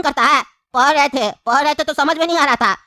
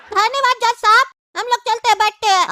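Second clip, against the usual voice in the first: high, put-upon voice of a tired bystander; worn-out witness, voice pitched up and moaning; whiny witness; 7 semitones higher than usual. Acted. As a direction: complain to the judge in a higher, whining voice. Second witness voice.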